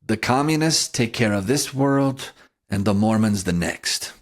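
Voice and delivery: put-on light Russian-accented English; a touch of Khrushchev's Russian accent; Soviet accent. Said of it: "You worked in a little Soviet accent there".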